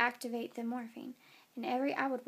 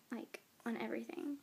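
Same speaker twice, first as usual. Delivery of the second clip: whispered aside; 6 dB quieter than usual. Real, not acted. Whispered aside about the epidural.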